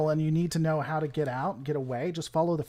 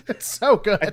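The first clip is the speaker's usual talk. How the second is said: imitating voice; 5 semitones higher, 5 dB louder, slower than usual.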